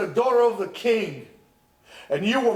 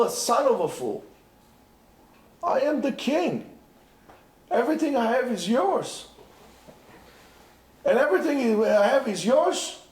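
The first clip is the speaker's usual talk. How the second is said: mild rebuke, rising higher; rebuking king; 5 semitones higher than usual. Acted. King rebuking the husband who left his daughter, mildly indignant. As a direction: scold him as a fool. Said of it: "the king will say to you".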